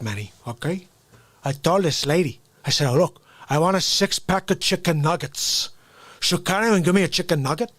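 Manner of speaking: hammed-up gangster fast-food complaint; angry gangster arguing over sauce; Scarface impression.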